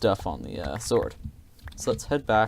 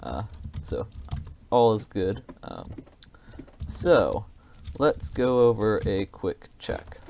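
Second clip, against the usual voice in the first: ordinary talk, nothing marked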